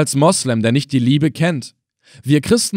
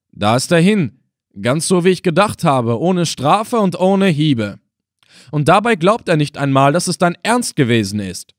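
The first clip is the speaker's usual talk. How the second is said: a higher, lively voice of a put-out servant; lightly voiced Halef, sulking about the missed whipping; Halef, the grumbling servant; 4 semitones higher, 3 dB louder than usual. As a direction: let Halef grumble half vexed, half amused. Halef's voice in the story.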